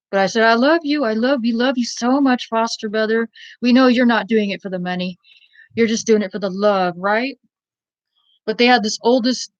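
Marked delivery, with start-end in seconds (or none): 0.4-7.4 mocking sweetness. Teasing the foster mother about the money, sarcastic. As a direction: lay it on thick to needle her. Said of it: "I did mess with the foster mother".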